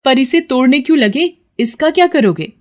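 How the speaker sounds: high, questioning wife; baffled, high-pitched objection; puzzled wife. Acted. Puzzled wife questions her husband.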